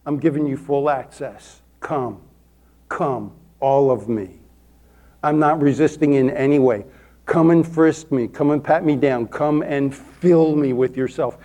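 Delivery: low, yielding prayer; hushed invitation to God; surrendering prayer. Retold or imitated. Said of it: "when I surrender, what does that imply".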